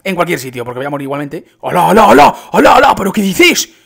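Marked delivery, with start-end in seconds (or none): 1.6-3.7 loud, high cries of disbelief; astonished shouting. Real, not acted. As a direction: shout it out, amazed, pitch climbing. Astonished at what he sees in game.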